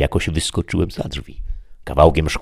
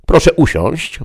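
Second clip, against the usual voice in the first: high, loud presenter demon; a demon host taking charge; officious devil voice; 13 semitones higher, 7 dB louder than usual. Acted.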